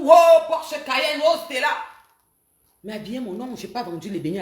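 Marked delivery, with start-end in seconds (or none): 0.0-1.7 higher, slow mock gossip voice. Mimicking gossip she hears everywhere, mock voice. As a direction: mimic the gossiping neighbors lightly. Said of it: "J'entends partout".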